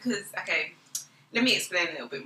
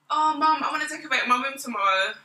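lightly voiced eager daughter; mimicked daughter; 5 semitones higher than usual. Mum retells daughter's late-night plan, lightly mimicked eagerness.

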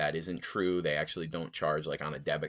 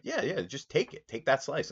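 high, exasperated yeah yeah; 9 semitones higher than usual. Retold or imitated. Telling the lady to keep it, high exasperation. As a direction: toss the slice away, way up high.

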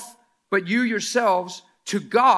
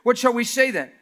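reading Paul; 5 semitones higher, 6 dB louder than usual. Acted. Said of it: "watch what Paul says".

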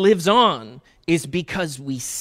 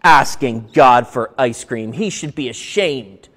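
cranky woman; 5 semitones lower than usual. Retold or imitated. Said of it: "a little bit of a cranky woman".

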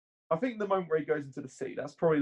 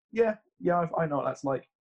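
relatable viewer; 3 semitones higher than usual. Retold or imitated. Podcaster voicing how any viewer reacts, lightly acted agreement. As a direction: jump up and agree like anyone watching would.

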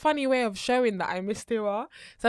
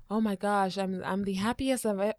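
attempted American accent; 3 semitones lower, 5 dB quieter than usual. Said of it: "I'm trying to do American accent".

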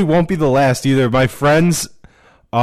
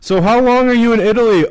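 mock friendly waiter; 9 semitones higher, 3 dB louder, faster than usual. Imitating friendly Italian waiter.

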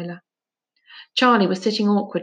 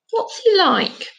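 curious question; 11 semitones higher, 3 dB louder, slower than usual. Acted. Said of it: "Shut up about goals and stuff".

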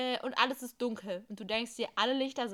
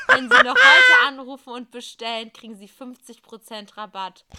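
chipper 1950s ad; 17 dB louder than usual. Acted. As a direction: hit the discount hard. Infomercial climax. (lauter, hoher Werbeschrei)

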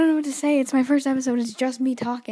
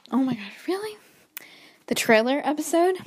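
whispered reaction; 4 semitones higher than usual. Retold or imitated. Siblings react to podcast.

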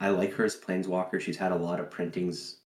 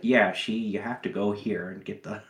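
gruff hard-boiled detective, lightly done; a hint of a noir gumshoe. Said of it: "some of the worst noir detective voice".

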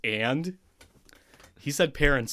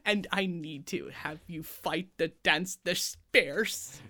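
a higher, breathy-free Icelandic lilt like a famous Icelandic singer; impression of that singer; 6 semitones higher than usual. Podcaster jokes the Aiel sound like the singer. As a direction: play a whimsical voice like that singer's. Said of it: "sound like a singer".

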